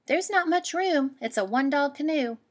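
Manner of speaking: put-on a girl gently turning a beaver away; girl character voice.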